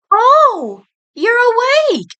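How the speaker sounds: high, loud startled cry of surprise; surprised exclamation. A narrator's reading. Nurse startled to find the patient awake, high surprised exclaim. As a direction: gasp it out, caught off guard. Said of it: "she exclaimed".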